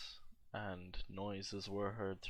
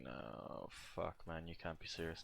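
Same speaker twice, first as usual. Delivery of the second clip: retold disbelief; 2 semitones lower, 7 dB quieter than usual. Retold reaction to embarrassing news.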